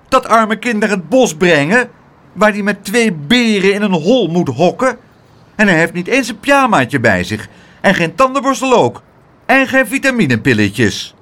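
high, loud fussing shout. Acted. Aunt shouts at Pluk in the street, loud and high. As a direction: scold at the top of her voice. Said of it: "Ze schreeuwde zo hard".

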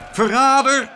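high, loud mob yell; furious high-pitched cry; angry shout. A narrator's reading. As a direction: yell it as an accusation. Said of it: "schreeuwden ze".

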